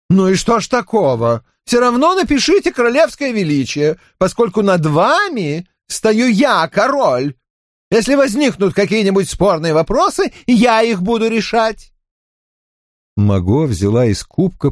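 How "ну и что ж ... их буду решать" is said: king's voice. Acted. King Louis insists.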